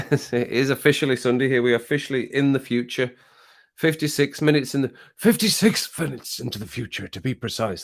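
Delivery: lightly voiced mad scientist; a hint of Doc Brown, announcing the future. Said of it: "Doc Brown impression".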